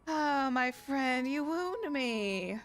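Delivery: slow, drawn-out theatrical hurt; mock wounded. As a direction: ham up the hurt feelings. Merchant fakes hurt at accusation.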